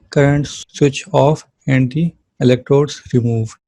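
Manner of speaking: very slow, word by word reading from the notes; measured textbook reading; slow dictation reading. Acted. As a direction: read it out like dictating to a class. Reads English notes aloud slowly.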